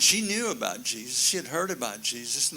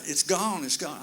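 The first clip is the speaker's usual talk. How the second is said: higher, louder cry of relief; joyful exclaim; 4 semitones higher, 4 dB louder than usual. Retold or imitated. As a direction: burst out with the good news. Healed woman runs home rejoicing.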